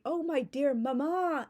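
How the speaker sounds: high, slow, syrupy mock sweetness; hammed-up doting child voice; gushing sappy daughter. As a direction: gush over mama like a Victorian parody. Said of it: "an over-the-top parody".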